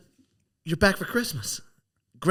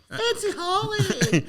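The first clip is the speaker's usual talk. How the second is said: mock posh; 14 semitones higher, much slower than usual. Mocking posh nickname, laughing.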